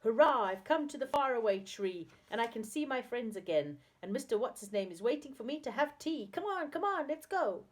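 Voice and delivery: high, delighted cheering; shouting in delight. A narrator's reading. Saucepan Man off to see his friends, shouting in delight. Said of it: "shouting in delight".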